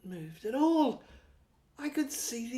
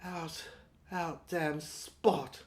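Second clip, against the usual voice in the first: slow, lower, drawn-out quote; Lady Macbeth; 5 semitones lower, much slower than usual. Retold or imitated. Narrator lightly voicing Lady Macbeth, slow and low. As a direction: intone it like a tragic queen, slowly. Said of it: "strutting up and down like Lady Macbeth".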